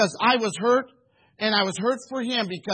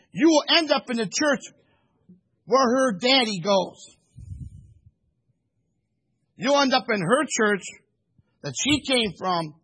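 stern warning; 3 semitones higher than usual. Retold or imitated. Pastor sternly warning the young man about his future, raised voice. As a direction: warn him point by point like a prophet. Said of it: "I said it sternly".

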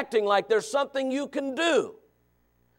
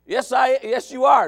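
firm, louder parental insistence; dad putting his foot down; insisting father; 3 semitones higher, 6 dB louder than usual. Retold or imitated. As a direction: lay down the law. Arguing with son.

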